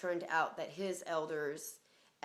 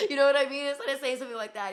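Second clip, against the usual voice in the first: fast, louder, laughing; 8 semitones higher, 15 dB louder, faster than usual. Retold or imitated. Laughing to the listener about the cockroach. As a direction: laugh it out quickly.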